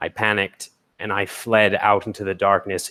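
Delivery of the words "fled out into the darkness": normal talking voice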